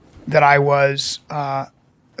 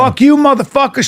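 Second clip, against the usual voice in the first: higher Alabama redneck heckle, a little louder; comic imitating an Alabama heckler's insult; Alabama redneck girl; 7 semitones higher, 3 dB louder than usual. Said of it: "Like this, this real Alabama girl".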